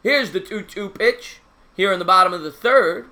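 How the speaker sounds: ordinary talk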